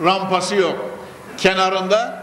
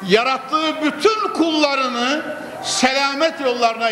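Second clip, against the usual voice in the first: raised, ringing preacher's cry; preaching shout; 4 semitones higher than usual. Acted. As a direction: call it out to the congregation. Preacher's climax.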